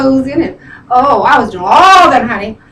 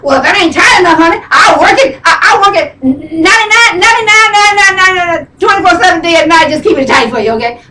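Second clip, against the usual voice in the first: higher, insistent self-pep talk; worked-up self-talk; 4 semitones higher, faster than usual. Acted. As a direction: chant it faster and higher, then settle. Acted pep talk to herself.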